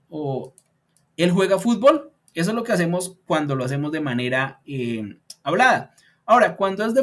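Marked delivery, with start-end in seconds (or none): 1.2-2.1 "fútbol" rises at the very end; spoken question, voice up on "fútbol"; rising question tune. Shown as a demonstration. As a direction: ask it, pitch climbing on "fútbol". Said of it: "la entonación sube".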